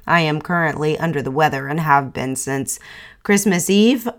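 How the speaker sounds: stuffy, congested nasal voice. Real, not acted. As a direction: talk through a blocked nose. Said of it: "bear with my nasally voice here".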